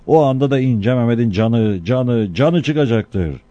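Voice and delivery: loud public proclamation; town crier. Acted. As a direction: call it out to the whole square. Crier announces the execution.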